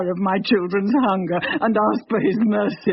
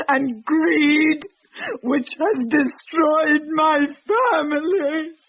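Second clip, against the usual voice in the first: climbing higher through tears on greed; bitter tearful refusal; 4 semitones higher than usual. Acted. Refusing forgiveness for her family's destruction.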